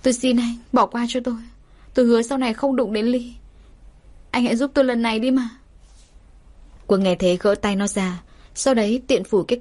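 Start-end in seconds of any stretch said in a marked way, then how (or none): 0.0-5.5 higher pleading voice, rushing at the end. Acted. Mistress on her knees begging the man to spare her, pleading. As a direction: beg him desperately not to expose her. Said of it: "túm lấy chân anh van xin".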